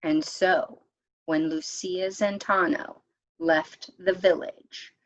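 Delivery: gentle, lilting read-aloud narration; storybook reading. A narrator's reading. Narrator reading a legend to friends, lilting storytelling. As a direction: read it like a picture book to a circle of kids. Reads picture book aloud.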